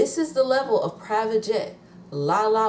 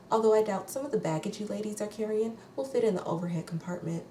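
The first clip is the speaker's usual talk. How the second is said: lightly voiced, softer flight attendant announcement; a hint of an airline cabin announcement; 3 semitones higher, 4 dB quieter, faster than usual. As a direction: play a prim flight attendant, softer and quick. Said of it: "the little voice she did".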